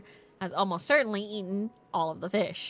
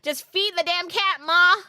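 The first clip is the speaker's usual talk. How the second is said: higher and louder mock yell at his mother; imitated screaming at mom; 9 semitones higher, 7 dB louder than usual. Clerk imitating how he yells at his mother, mock yell. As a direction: holler it like he does every night. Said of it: "screaming at her and screaming at".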